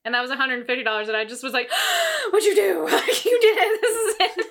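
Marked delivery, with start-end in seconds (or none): 1.7-2.2 sharp high gasp of surprise; high surprised intake of breath. Retold or imitated. Retold shock at gift. 2.3-4.5 high, loud thrilled exclamation; high loud giddy disbelief; delighted shock. Retold or imitated.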